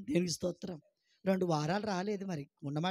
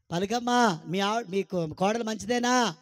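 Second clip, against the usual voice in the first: urging; 6 dB louder, slower than usual. Shown as a demonstration. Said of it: "మంచిదని పలుకు".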